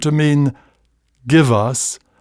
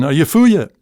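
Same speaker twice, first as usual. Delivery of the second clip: Scots teasing; 3 semitones higher, faster than usual. Shown as a demonstration. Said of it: "as in".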